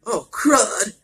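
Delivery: high loud dismayed shout; loud high oh crud. A narrator's reading. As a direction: yell it as things go wrong. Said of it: "Lincoln shouted".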